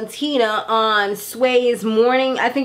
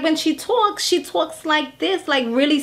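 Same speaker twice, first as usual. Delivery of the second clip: put-on little girl voice; 5 semitones higher than usual. Shown as a demonstration. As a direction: shrink into a tiny little girl's voice. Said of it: "like a little girl type of voice".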